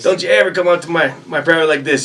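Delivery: high, loud protective bark; drill sergeant voice. Retold or imitated. Drill sergeant confronting another sergeant, high loud bark. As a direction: stand up for your private loudly.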